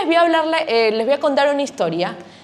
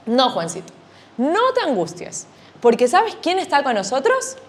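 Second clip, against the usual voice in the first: reassuring mother. Acted. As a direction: soothe the frightened boy. Mom comforts scared son.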